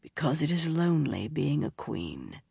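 quiet, tender explanation; soft and gentle. A narrator's reading. The bard comforting the crying princess, softly and tenderly. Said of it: "he said softly".

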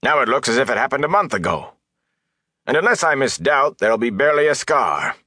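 high-pitched, insistent reproach; stern rebuke. A narrator's reading. Mayor reminding villagers whom she healed, reproachful.

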